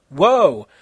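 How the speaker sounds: loud startled whoa; surprised shout. Acted. Konata seeing Kenshiro, loud surprised shout. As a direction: gasp it out loud. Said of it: "Konata shouted, surprised".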